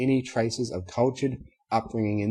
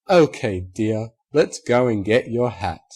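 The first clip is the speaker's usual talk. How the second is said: tender; 6 dB louder than usual. Acted. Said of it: "tearing up as well".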